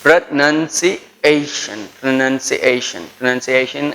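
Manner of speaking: pronunciation said slowly, pro-nun-see-AY-shun; pronunciation modelled syllable by syllable; careful pronunciation drill. Shown as a demonstration. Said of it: "And then".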